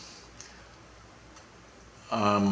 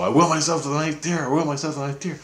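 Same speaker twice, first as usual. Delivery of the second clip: higher-pitched self-command; mock determined command; 5 semitones higher, faster than usual. Woman retells willing herself to the ninth tier, determined. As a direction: lift the pitch, willing yourself onward.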